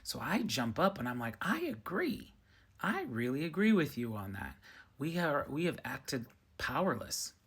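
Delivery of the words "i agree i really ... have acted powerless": jumping in with a high, eager yes; eager agreement. Retold or imitated. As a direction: burst out agreeing, thrilled.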